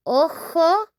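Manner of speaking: ojo, o-ho, breathy h in the middle; Spanish ojo. Shown as a demonstration. Teacher contrasting ojo with ojos, clear model. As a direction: model ojo for one eye. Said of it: "if we are talking about just one eye".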